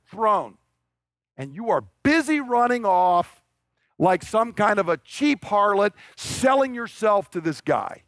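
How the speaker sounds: enraged king. Retold or imitated. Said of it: "But what he is saying is".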